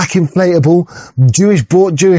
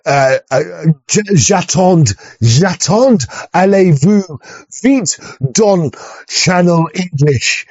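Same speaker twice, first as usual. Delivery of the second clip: put-on French accent; much slower than usual. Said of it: "and the French would be like that".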